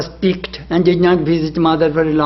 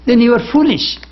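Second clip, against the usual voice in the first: laughing; 6 semitones higher than usual. Real, not acted. Laughing scolding of foolish devotee.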